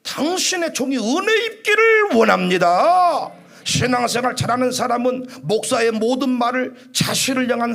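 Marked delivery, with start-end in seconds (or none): 0.0-3.3 humble reply. Shown as a demonstration. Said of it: "뭐라고 말해요?".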